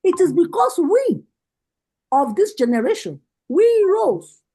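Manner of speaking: rousing rally address, rising on each call; fiery political speech. Real, not acted. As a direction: preach it to the party women like a campaign rally. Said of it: "spitting fire".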